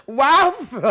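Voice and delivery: cracking up saying the name; laughing. Real, not acted. Laughing at the commenter Wildflower, loud and amused.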